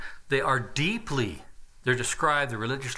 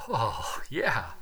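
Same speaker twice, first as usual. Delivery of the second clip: pretend relish; slower than usual. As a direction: sigh it out like a pleased hiker. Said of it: "you're gonna go".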